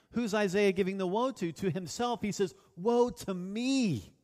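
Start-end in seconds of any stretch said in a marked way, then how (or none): 2.8-4.1 slow, drawn-out cry of woe; cried lament. Acted. Preacher voicing Isaiah's woe to himself, slow mock cry. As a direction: stretch each word into a mild preached lament. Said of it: "I cried".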